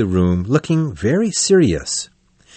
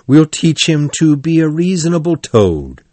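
happy cry; 6 semitones higher than usual. A narrator's reading. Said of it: "cried the mole happily".

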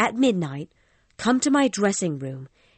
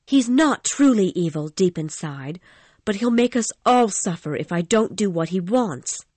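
put-on high, anxious girlish voice; pleading in distress; distressed plea; 9 semitones higher, 5 dB louder than usual. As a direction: Christine defending Eric in a distressed high voice. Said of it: "she cried".

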